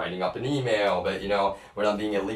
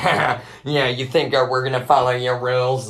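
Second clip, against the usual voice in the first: higher, louder mocking imitation with a laugh; mocking jeer; 6 semitones higher, 7 dB louder than usual. Imitated trolls scoffing at his rules, mocking jeer. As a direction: jeer like a cocky heckler. Mimics rule-breakers jeering at him.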